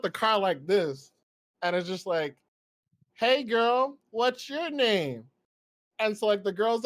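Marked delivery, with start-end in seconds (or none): 3.1-5.2 higher, drawn-out flirty call; super chill pickup.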